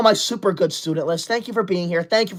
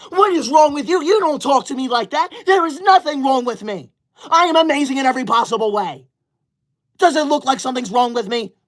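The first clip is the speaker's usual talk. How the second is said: sassy; 4 semitones higher than usual. Real, not acted. Retorting to commenter.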